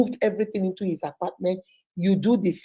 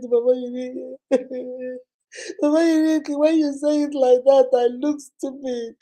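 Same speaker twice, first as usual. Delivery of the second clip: upset client; 4 semitones higher than usual. Retold or imitated. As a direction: whine that she sounds stupid. Client complaining, voiced higher.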